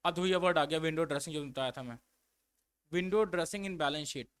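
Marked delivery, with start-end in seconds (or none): 2.9-4.3 slow dictation. Shown as a demonstration. Dictating a heading.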